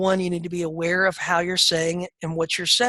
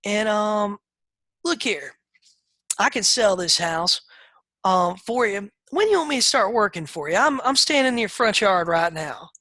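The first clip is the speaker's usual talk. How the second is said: retold pitch; 5 semitones higher than usual. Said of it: "I said".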